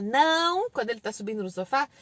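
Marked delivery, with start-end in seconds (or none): 0.0-0.7 loud, stretched-out no; parent's reflex no; scolding no. Shown as a demonstration. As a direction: snap out a warning no, drawn long. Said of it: "em vez de falar".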